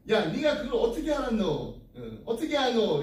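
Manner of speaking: retold astonishment in blunt Gyeongsang dialect; casual Gyeongsang questioning, acted out; Gyeongsang banmal. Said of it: "이렇게 반말했더니".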